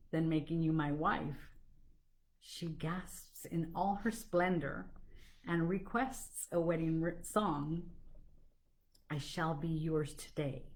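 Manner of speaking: animated verse with pauses between lines; poetry reading. Acted. Suitor proposing marriage to a dignified lady, poetry reading. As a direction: recite it like a little courtship tale. Reads a dialogue poem aloud.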